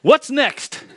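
high, loud and laughing; playful mock shrug of a question. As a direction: toss it off with a chuckle. Mocking casual churchgoer.

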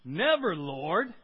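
mild rebuke. A narrator's reading. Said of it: "began to rebuke him".

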